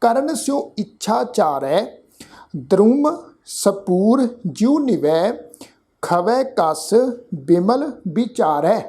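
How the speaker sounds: slow, careful verse reading with pauses; slow recitation. Shown as a demonstration. Teacher showing the sangat how to recite. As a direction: lay out every word for listeners to copy. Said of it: "ਇੱਕ ਵਾਰ ਫਿਰ ਤੋਂ ਪਾਠ ਉਚਾਰਨ ਕਰ ਰਹੇ ਹਾਂ".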